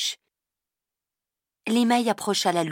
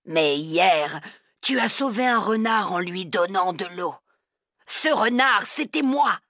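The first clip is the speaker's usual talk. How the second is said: softer voice. A narrator's reading. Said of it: "il dit d'une voix plus douce".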